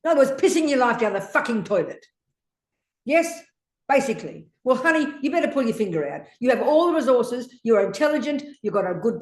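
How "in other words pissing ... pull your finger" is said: scolding. Real, not acted. Teacher scolding student about video games.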